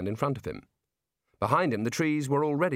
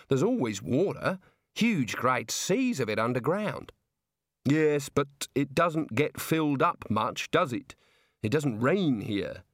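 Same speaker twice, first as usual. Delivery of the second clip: put-on Australian girl voice; slower than usual. Neelet's lines in the story.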